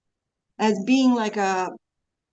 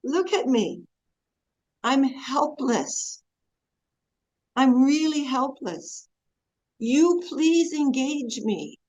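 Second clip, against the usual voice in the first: humble prayer; 3 semitones higher than usual. Shown as a demonstration. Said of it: "most of those prayers are".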